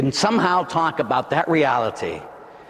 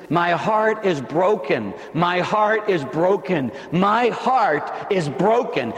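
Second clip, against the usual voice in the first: slow lament; 2 semitones higher, slower than usual. Acted. Repeated slow lament as Jesus.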